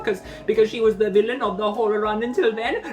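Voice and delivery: laughing fake Italian Batman; bad Italian accent. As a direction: gloat in a cartoon Italian voice. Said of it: "doing a bad Italian accent".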